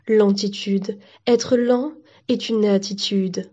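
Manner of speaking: slow, measured ad read; TV advert voice-over. Acted. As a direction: sell slowness, taking your time. Car advert on television.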